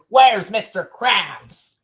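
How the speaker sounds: robot voice. Acted. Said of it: "here's one from an earlier season".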